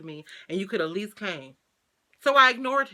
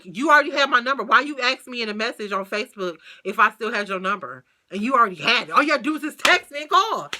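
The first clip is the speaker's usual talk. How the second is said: heated; 2 semitones higher, 5 dB louder than usual. Retold or imitated. Telling the ex he already had her number: loud, exasperated. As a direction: press the point hard. Confronting him again.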